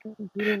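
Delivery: soft little repeated hums; demonstrated humming noises. Shown as a demonstration. Guest shows the noises made while googling, soft hums. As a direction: hum absently, quietly. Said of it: "I might make noises like".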